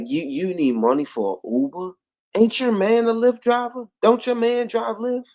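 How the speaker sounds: mocking high voice; high mocking taunt; mocking quote. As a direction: sneer it like a nosy friend. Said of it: "her crust might ask".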